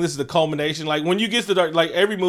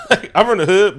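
chuckling through the words; laughing; 4 semitones higher, 8 dB louder than usual. Real, not acted. Laughing while talking.

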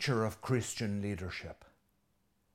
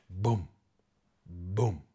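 muffled drumbeat; 3 semitones lower than usual. Shown as a demonstration. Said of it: "that muffled drumbeat".

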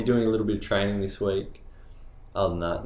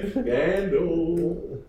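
mock scandalized; 9 semitones higher than usual. Playful mock gasp.

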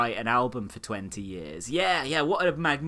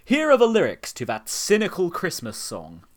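showbiz guy; 5 semitones higher, 4 dB louder than usual. Retold or imitated. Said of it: "some shit-eating showbiz guy".

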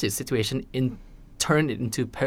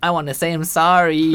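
laughing apology; 4 semitones higher, 6 dB louder, faster than usual. Real, not acted. Jokey apology to the absent friend.

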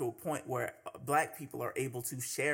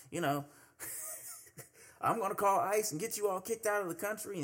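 raised, whiny rant of an angry customer; mocking a ranting white man; 6 semitones higher than usual. Imitating a bigot telling Spanish speakers to speak English. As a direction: sneer it out like an entitled bigot.

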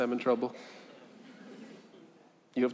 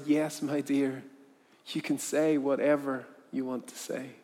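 reassuring. Acted. Man reassures the girl.

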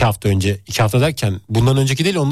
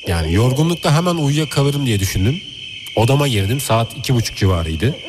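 spooky storytelling. Acted. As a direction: tell it like a campfire ghost story. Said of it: "Hissettir bize".

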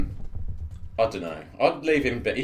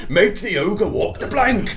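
loud, high, slow pirate order; hammed-up pirate shout; 7 semitones higher, 7 dB louder, slower than usual. Crew ordering the ogre overboard, mock pirate bellow. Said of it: "We immediately turn into pirates".

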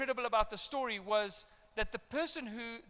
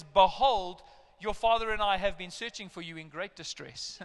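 formal Bible voice; 5 dB louder than usual. Retold or imitated. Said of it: "a Bible way of saying".

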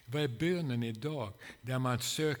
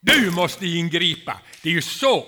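crying out to God; 5 semitones higher, 16 dB louder than usual. Shown as a demonstration. Preacher showing how to cry out to the Lord, loud. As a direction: shout the prayer up to heaven. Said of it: "skriker till honom att han måste ingripa".

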